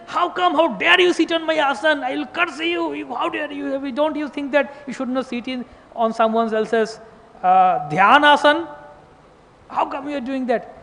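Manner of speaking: a holy man's indignant rebuke, retold with heat; angry sadhu. Sadhu rebukes assistant for sitting on his asan, angry. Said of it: "he was so angry".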